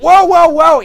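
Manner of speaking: high loud call to stop; hammed-up break-it-up cry; loud calming whoa. Skeletor stopping Triclops with loud whoas.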